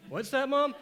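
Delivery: gasp, then a high rising plea; frightened kid asking mom; breathless high question, rising. Retold or imitated. Kid asks mom, gasping.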